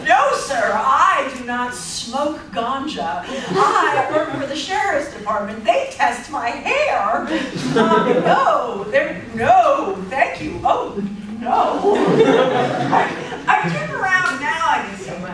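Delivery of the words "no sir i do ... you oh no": louder, flustered pearl-clutching refusal; mock-horrified uptight woman, laughing; prim white lady. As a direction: play the scandalized prim lady. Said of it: "I suddenly was like".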